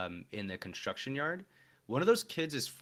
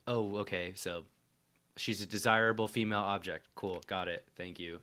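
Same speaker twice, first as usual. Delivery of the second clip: deadpan sarcastic; 4 semitones lower than usual. Retold or imitated. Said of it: "And then it's just like".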